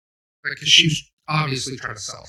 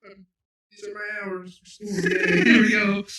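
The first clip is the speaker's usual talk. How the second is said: higher, mock-clueless new guy going along with it; imitating bewildered Ewan; 8 semitones higher, 4 dB louder than usual. Mimicking new coworker Ewan, lightly mocking, pitched up. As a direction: play the confused newbie, pitched up and a bit airy. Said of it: "He's like".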